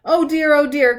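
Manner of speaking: flustered little pig in a panic; fretting pig. Acted. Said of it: "cried the pig".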